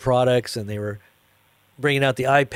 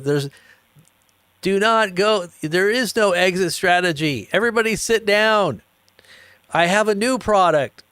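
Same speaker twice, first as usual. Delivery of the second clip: mock commanding CEO; 7 semitones higher than usual. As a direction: order the crowd to sit. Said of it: "He says".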